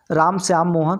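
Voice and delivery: tiny break after Ram and after Shyam before Mohan; short rest between Ram, Shyam and Mohan; brief comma pauses. Shown as a demonstration. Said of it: "उसमें बहुत थोड़ा सा ठहराव ले रहे हैं".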